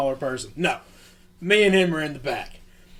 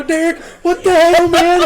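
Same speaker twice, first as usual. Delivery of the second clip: mock yell; 10 semitones higher, 6 dB louder than usual. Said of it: "and I go".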